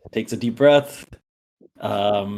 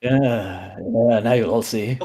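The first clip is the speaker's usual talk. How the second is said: gloating, mocking villain speech, pitched up at the taunts; villain monologue. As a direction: taunt Mushfik like a smug villain. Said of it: "he goes".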